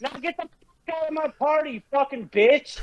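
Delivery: high pitched furious taunt. Real, not acted. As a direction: chew out the opponent. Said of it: "we've completely derailed".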